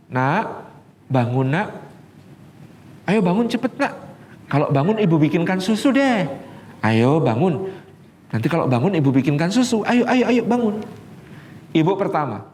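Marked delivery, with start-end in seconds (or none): 0.1-10.8 first mother coaxing. Retold or imitated. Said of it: "Ibu pertama membangunkan anaknya dengan kata-kata begini".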